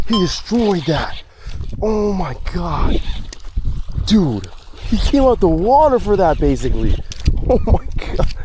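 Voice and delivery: loud, high startled exclamations; scared and amazed. Real, not acted. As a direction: blurt it out, shocked by the sudden strike. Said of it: "He scared me".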